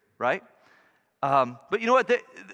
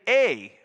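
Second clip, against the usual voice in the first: "a" punched, louder than the words around it; stress on a; 2 semitones higher, 6 dB louder than usual. Shown as a demonstration. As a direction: hit the little word "a" hard. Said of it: "it actually should say".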